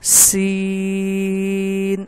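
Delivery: سین held very long, clear; drawn-out recitation. Shown as a demonstration. Teacher reciting the letter سین, drawn out. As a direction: chant سین slowly. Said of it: "آگے".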